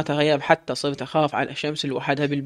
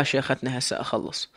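whispered reply; 6 dB quieter than usual. Acted. Servant answers harsh wife.

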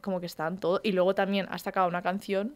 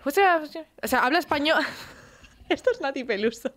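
light mock accent of a singer, a bit higher; 5 semitones higher than usual. Friend mocking a singer's accent, hammed-up. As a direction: tease her singer accent, half laughing. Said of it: "esa cantante tiene una forma de cantar muy específica".

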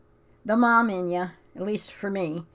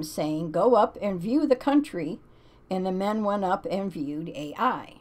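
scripture reading; 2 semitones higher than usual. Acted. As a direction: read it like a solemn verse. Reads Bible passage aloud.

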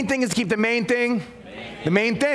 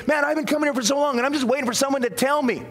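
higher, hurried mock complaint; quick, pitched-up grumble, imitating a congregant; mock impatient churchgoer; 4 semitones higher, faster than usual. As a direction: lightly act out someone tired of waiting.

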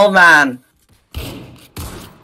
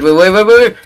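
urgent pleading; 2 semitones higher, 5 dB louder, faster than usual. Real, not acted. Begging teammates to hold.

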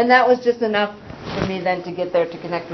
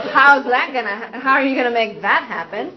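mocking challenge; 4 semitones higher, 4 dB louder than usual.

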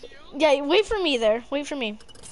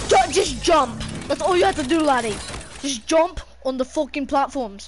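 exasperated yelling with an Irish lilt; accidental Irish brogue, frustrated; Irish accent. Real, not acted. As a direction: slip into Irish while yelling at the game. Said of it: "sounding Irish when I keep on yelling".

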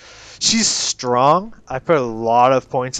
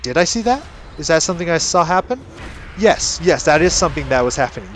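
sincere pondering; 4 semitones higher, faster than usual. Shown as a demonstration. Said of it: "completely serious".

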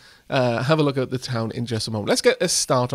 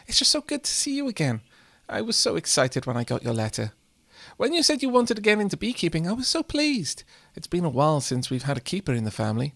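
doting grandma voice; 2 semitones higher than usual. Acted. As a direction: gush over the grandson like a lightly voiced nana. Reads Grandma character's dialogue.

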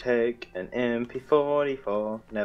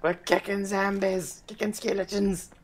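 imitating a watcher; 9 semitones higher than usual. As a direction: play the puzzled onlooker, pitched up. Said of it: "so I'm like".

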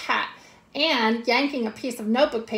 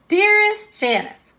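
much higher and louder, slow "Dearest Janice"; hammed-up swooning; 11 semitones higher, 6 dB louder, slower than usual. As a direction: sing out "Dearest" way up high. Redoing the letter opening, bigger.

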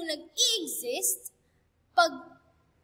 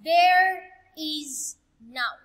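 THERE IS stretched slow and a little louder; emphasizing there is; 6 dB louder, much slower than usual. Shown as a demonstration. Teacher to online class, stressing "there is" slowly. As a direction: lean hard on "there is", drawing it out slowly. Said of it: "we will gonna emphasize that".

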